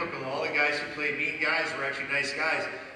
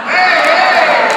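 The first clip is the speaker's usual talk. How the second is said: much higher and louder shout; 13 semitones higher, 17 dB louder than usual. Real, not acted. Calling out to the crowd over the noise, loud shout. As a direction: call out over the noisy room.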